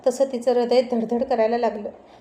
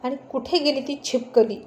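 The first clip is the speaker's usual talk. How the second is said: annoyed. Acted. Aaryan to mom about the prank, angry. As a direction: storm down fuming about the makeup. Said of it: "चिडून खाली आला आणि म्हणाला".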